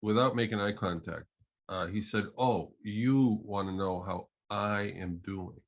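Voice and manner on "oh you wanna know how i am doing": slow, lightly imitated Russian accent. Coach retelling an architect's reply in the washroom, light Russian accent. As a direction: draw the question out with a hint of Russian. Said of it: "in a thick Russian accent".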